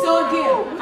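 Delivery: high loud exclamation; emphatic shout. Real, not acted. Speaker rallying the audience with a loud shout.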